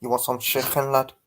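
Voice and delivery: put-on light Scouse accent on a friendly offer; a hint of a Liverpool lad offering chicken; teasing a Liverpool fan with a light Scouse accent; mock Scouse accent. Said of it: "you had to put in a Scouse accent".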